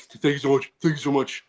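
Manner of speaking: light imitation of a gushing friend; mimicking his buddy. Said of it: "I mimic".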